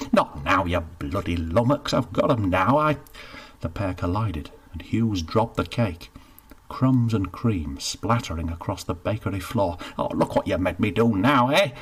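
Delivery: mild exasperation, snapping; cross baker. Acted. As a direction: blame him for the dropped cake.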